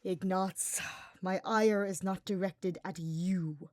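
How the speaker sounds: slow, sighing reassurance; calm him down, tired but kind; weary reassurance. Acted. Hubert sighing as he reassures the frightened archer. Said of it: "Hubert reassured the archer with a heavy sigh".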